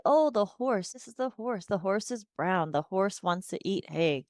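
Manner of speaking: a light, lifted voice, naming the horse; commenting play talk. Shown as a demonstration. Therapist to child at farm set, gentle commenting. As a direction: narrate the toy calmly for the child. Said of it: "I might say".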